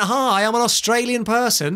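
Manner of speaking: hammed-up Australian self-introduction; mock Australian accent. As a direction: put on an obvious Australian accent. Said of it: "If he went".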